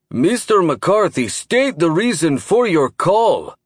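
gruff booming voice. A narrator's reading. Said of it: "his gruff voice boomed".

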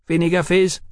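put-on high-pitched boyish taunt; jeering. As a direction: fleer at him like a wicked boy. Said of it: "a wicked boy fleered at him".

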